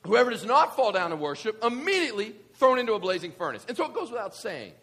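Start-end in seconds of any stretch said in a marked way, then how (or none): 0.1-3.7 loud, stern threat from a king; stern royal decree. Acted. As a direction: deliver the decree with force. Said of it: "here's what he says".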